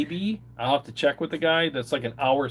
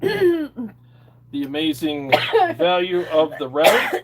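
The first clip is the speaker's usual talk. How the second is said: very slow and high, drawn out; milk it like a game show host; dramatic announcer read; 4 semitones higher, 5 dB louder, much slower than usual. Pretend. Finishing the quote dramatically.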